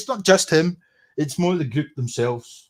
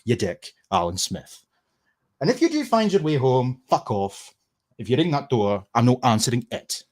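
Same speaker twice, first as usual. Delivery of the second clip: comic verse recital; 3 semitones higher than usual. Acted. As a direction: recite a mocking rhyme with punchy line openings. Performs a comic insult verse.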